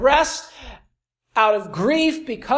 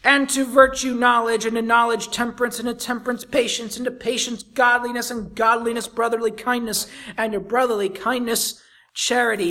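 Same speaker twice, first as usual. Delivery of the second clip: a lightly raised, declaiming scripture reading; preaching scripture. Acted. Preacher reading scripture to the congregation, declaiming. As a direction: read the verses out to the congregation.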